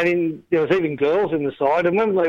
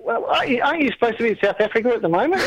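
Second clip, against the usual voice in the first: laughing mock caller; 8 semitones higher, faster than usual. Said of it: "People go".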